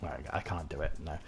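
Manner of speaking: soft, failed attempt at a game-hero voice; Solid Snake. Streamer shows he can't do voices anymore, weak Solid Snake impression. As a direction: try a raspy soldier and fall short. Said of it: "David Hayter as Solid Snake, that voice".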